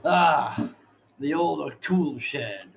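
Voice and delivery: drawn-out opening, then casual; lightly voiced old shopkeeper; shopkeeper character. Game master voicing shopkeeper about his tool shed, lightly acted. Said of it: "He turns and looks at you and says".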